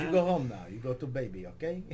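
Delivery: lightly voiced Russian-accented order; imitated Russian super, firm little scolding; Russian woman. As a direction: send him home in a Russian accent. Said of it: "She's a Russian".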